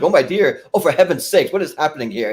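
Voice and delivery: high, fussy panic; lightly voiced fussy nerd fretting; Ed Grimley fretting. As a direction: fret like a nervous nerd. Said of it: "he's just like".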